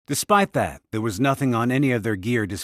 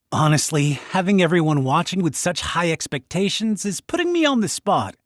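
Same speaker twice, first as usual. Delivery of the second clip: higher, mildly flustered grumble; flustered inner voice; 5 semitones higher than usual. Acted. Mage thinking to himself while children watch, mildly flustered. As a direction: complain to yourself under the pressure.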